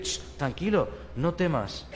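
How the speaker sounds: soft and soothing; hushing. Acted. Angels soothing a startled human, softly. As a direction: shush a scared person gently.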